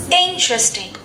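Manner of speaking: "Interesting" with IN stressed, then falling; stress on first syllable. Shown as a demonstration. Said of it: "First syllable".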